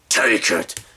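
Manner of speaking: sudden growled ghost command; ghost turning low. Retold or imitated. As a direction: switch abruptly to a menacing ghost growl. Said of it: "just all of a sudden turns low".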